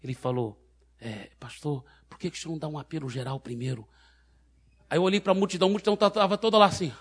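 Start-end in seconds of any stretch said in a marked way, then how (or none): 1.0-3.9 spoken into ear. Retold or imitated. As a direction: murmur a quick private suggestion to the pastor. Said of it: "falou no meu ouvido assim".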